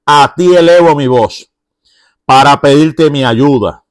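the psalmist, hidden in the cave, pleading aloud to God. Retold or imitated. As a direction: beg God for help with urgency. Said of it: "elevar una oración, una súplica".

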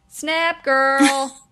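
put-on high, loud sassy "snap, girl"; mock sassy girlfriend retort. Sassy comeback to friend.

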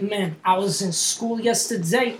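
slow, soft put-on accent; drawn-out mock cool-guy voice; douchebag voice. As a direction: imitate a comic's affected way of talking. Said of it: "Like, he's like".

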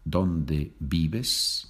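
vives said "bibes", both V sounds as B. Shown as a demonstration. Teacher models a question for learners, vives with B sounds. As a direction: make each V in vives a B. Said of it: "the V is pronounced B".

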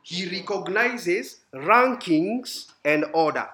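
each word spaced out slowly; slow, deliberate. Shown as a demonstration. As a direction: spell it out slowly for the class. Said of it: "He does what?".

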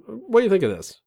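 high, eager fishing for praise; wife asking opinion. Retold or imitated. Wife showing off outfit to husband, high and hopeful.

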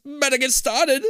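high, slow, eerie disembodied voice; hollow echoing voice. Acted. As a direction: echo it out like a ghost in the walls. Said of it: "the voice interrupts".

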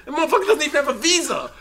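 high, loud, fast mockery; mock gangster Big Bird. Big Bird mocking the Count's accent, high and loud. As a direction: sneer at the foreigner.

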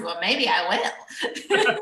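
slow, teasing sassy comeback. Retold or imitated. Answering the wrestler's suggestion, slow sassy reply. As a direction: draw it out with sass, a laugh behind it. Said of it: "still sassy".

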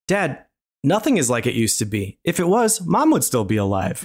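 stiff, awkward line reading; bad acting. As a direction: deliver it like a bad actress. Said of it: "gonna try to deliver it like she does".

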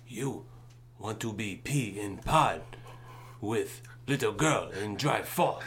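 joking fake foreign accent, broken English; lightly put-on foreign accent, mock threat. To a runaway child, mock punishment in a lightly put-on foreign accent. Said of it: "put my fake foreign accent on".

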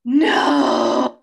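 loud shocked protest; outraged cry. Real, not acted. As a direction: cry out in disbelief. Friend kills favourite character.

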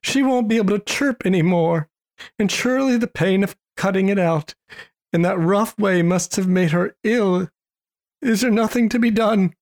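a touch of heartbroken pity; distressed lament. Acted. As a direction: mourn the poor little sparrow aloud. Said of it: "terribly distressed".

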